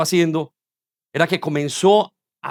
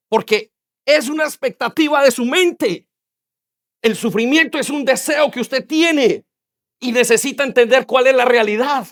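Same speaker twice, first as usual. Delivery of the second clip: pitched-up insistent sermon; impassioned preaching; 6 semitones higher than usual. Acted. Preacher telling sufferers to understand reality, impassioned. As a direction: press it on the congregation.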